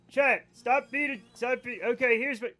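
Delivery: hammed-up preacher telling chat off; mock sermon. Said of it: "give sermon".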